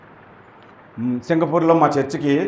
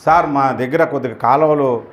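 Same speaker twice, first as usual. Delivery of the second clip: humble request; 5 semitones lower, 3 dB quieter than usual. Retold or imitated. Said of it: "వినయంతో అడగాలి".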